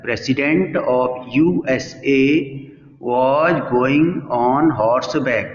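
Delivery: each English word drawn out slowly for the class; slow textbook reading. Shown as a demonstration. Teacher reading the English sentence slowly to students. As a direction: read the sentence slowly, like dictation.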